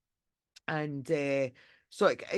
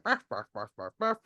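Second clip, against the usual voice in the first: imitating barking; 7 semitones lower than usual. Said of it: "So the dog's like".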